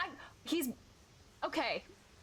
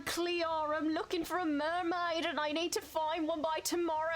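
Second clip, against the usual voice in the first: bad Scottish accent; 3 semitones higher than usual. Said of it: "I sound like Dick Van Dyke".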